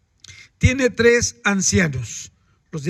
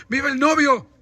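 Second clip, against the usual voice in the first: vítor agudo sin gritar de verdad; vítores imitados; 4 semitones higher than usual. Retold or imitated. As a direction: imita a la iglesia vitoreando al novio. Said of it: "la iglesia gritando". (vítor imitado, más agudo)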